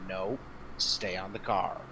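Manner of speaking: low, measured, firm command; stern order. Acted. Masher orders them to stay on the car, stern. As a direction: say it sternly but keep it quiet and low. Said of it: "very sternly say".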